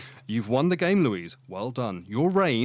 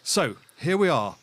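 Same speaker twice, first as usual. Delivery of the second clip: put-on Forrest Gump accent; 3 semitones higher, 3 dB louder, much slower than usual. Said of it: "that's Forrest Gump speaking".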